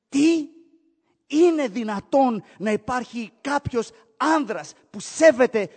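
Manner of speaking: loud, high incredulous what; bewildered outcry; imagined listener shocked by God's mercy. Retold or imitated.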